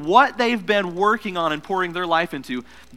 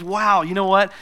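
excited mom; 6 semitones higher, 5 dB louder than usual. Retold or imitated. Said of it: "Mom says".

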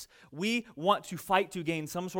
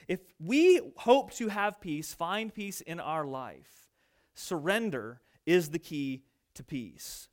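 earnest sermon point; 3 semitones lower, slower than usual. Real, not acted. Sermon's key point, slowed.

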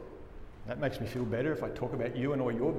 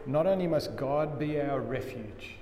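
ordinary delivery

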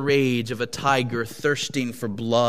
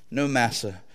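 meek reply; 3 semitones lower than usual. Acted. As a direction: answer gently, bowing your head. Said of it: "was the reply".

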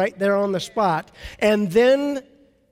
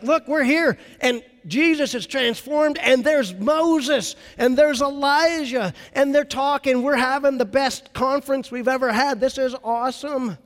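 higher, eager rush of delight; excited Peter; 5 semitones higher than usual. Retold or imitated. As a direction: gush like a thrilled disciple. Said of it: "Peter gets all excited".

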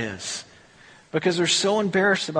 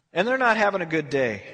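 ordinary talk

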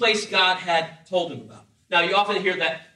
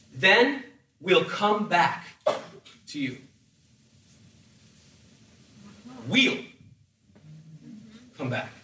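"Then we'll come back" with Then slow and drawn out; stress on Then; 4 semitones lower, slower than usual. Shown as a demonstration. Preacher stresses Abraham's promise to return, slow. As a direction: lean hard on Then, then We'll. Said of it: "Ready? What does it say?".

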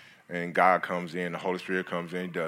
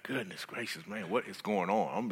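hushed bewilderment; 7 dB quieter than usual. Retold or imitated. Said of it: "I'm like".

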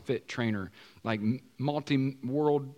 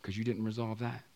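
quiet Holy Spirit; 3 semitones lower, 5 dB quieter than usual. Pretend. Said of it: "Holy Spirit said".

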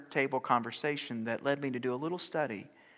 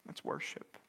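lower, breathy whisper; 12 semitones lower, 10 dB quieter than usual. Acted. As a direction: breathe it like a secret. Repeated line, whispered.

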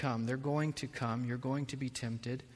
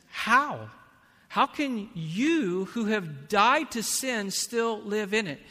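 Paul's question; 8 semitones higher, 7 dB louder, slower than usual. Retold or imitated. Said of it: "And then he says".

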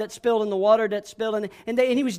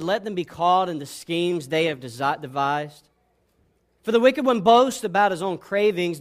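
measured, slightly lowered reading voice; scripture reading; 4 semitones lower than usual. Acted. Preacher reading Psalm ten to the congregation, solemn recitation. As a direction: read the psalm solemnly to the listeners.

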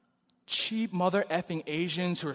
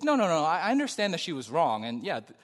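calm. Retold or imitated. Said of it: "he's just really calm".

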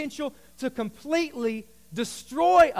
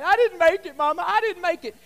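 higher, whiny sob to mama; mock crying; 4 semitones higher, 4 dB louder than usual. Pastor voicing a contestant crying to mama. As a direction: blubber it to mama. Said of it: "they're crying".

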